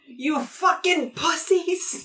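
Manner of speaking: slow, high-pitched drill-sergeant yell; Song. Acted. Game master as a character berating soldiers, mock yelling. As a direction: draw out each word as a hammed-up order. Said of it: "That's what Song would say".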